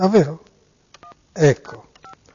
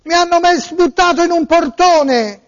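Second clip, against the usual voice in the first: raised, whiny tearful voice; distressed victim voice; 3 semitones higher than usual. Pretend. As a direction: play a wailing robbed man. Prank call, distressed victim.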